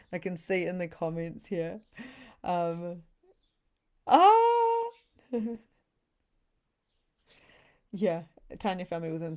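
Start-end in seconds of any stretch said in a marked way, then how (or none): 4.1-4.9 sudden high squeal of delight. Real, not acted. Reading the live chat, she squeals with delight. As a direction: yelp with glee at a comment.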